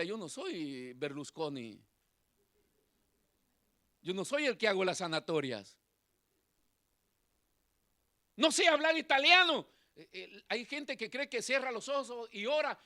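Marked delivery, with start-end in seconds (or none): 0.0-9.7 voice of God. Retold or imitated. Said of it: "el Señor me decía".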